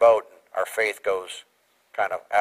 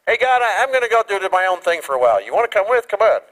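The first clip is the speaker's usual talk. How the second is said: mock casual to God; 7 semitones higher, 3 dB louder than usual. Casual voice of a drifting believer.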